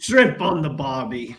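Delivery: bad Australian accent. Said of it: "I know that was a horrible accent".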